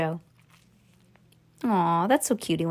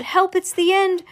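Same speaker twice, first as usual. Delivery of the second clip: panicked shout; 9 semitones higher than usual. A narrator's reading. Grandpa Joe as the lift crashes through the roof, panicked shout. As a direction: cry for help, pitched right up. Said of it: "Grandpa Joe shouted".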